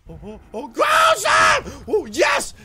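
full-out high, loud battle yell; yelled attack call. Real, not acted. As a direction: scream the move, then exult. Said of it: "how many times I've yelled ground slam".

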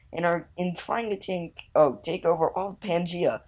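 lightly acted desperate messenger; dramatic message reading. Messenger warning the player about the creatures, mildly dramatic. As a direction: read out an urgent plea for help. Reads game character's message aloud.

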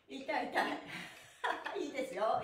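slow ouch through laughter; laughing in pain. Real, not acted. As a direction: laugh off the sore stretch. (笑いながら痛がる)

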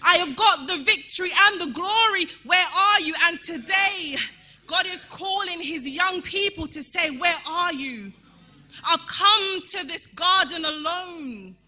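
fiery preaching. Acted. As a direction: preach it out to the whole church. Preaching at full force.

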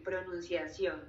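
"pronunciación" said slowly and clearly; slow, careful "pronunciación" for a learner; teacher's pronunciation model. Shown as a demonstration. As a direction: model "pronunciación" at an unhurried pace. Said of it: "volvamos a decirlo, diga".

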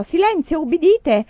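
put-on old surgeon yelling at his assistants to obey; shouted command. A narrator's reading. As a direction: shout it like a surgeon who must be obeyed. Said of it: "urlò".

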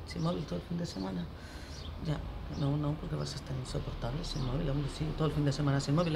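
soft, low aside to yourself; muttered second thoughts. Acted. Parent reconsidering a weekend without phone, muttering. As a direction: think it over under your breath.

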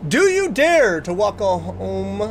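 slow eerie trailer voice; drawn-out horror narrator read; spooky announcer. Shown as a demonstration. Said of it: "Let me try that one more time".

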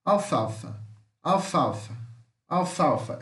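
"Alfalfa" with its L kept, stressed in the middle, pitch falling; pronunciation demo. Shown as a demonstration. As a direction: say "Alfalfa" as a careful English model. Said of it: "a pronúncia que vai ficar com esse L".

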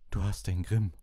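peer into the cup like a dramatic fortune teller; mystic seer voice. A narrator's reading. Trelawney to Harry, reading his cup in a high mystic voice.

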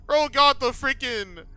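loud, high-pitched disbelief; climbing into an incredulous near-shout; incredulous ranting. Real, not acted. Mocking a creepy motel clerk's look.

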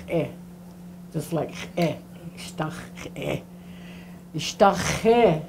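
"Eh" buzzed in the throat like a cat purring; throat sound. Shown as a demonstration. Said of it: "when a cat's purring".

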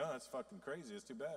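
quiet, offhand indifference; indifferent shrug. Retold or imitated. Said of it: "we're like".

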